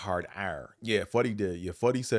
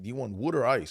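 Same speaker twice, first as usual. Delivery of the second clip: mock Philly question; 4 semitones higher than usual. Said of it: "like they're saying wood or ice".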